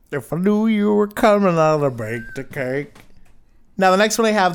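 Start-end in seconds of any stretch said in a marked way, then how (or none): 0.1-2.9 put-on chirpy old-fashioned housewife lilt; 1950s housewife. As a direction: sing it like a sitcom mom. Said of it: "Do I sound like a nineteen fifties housewife?".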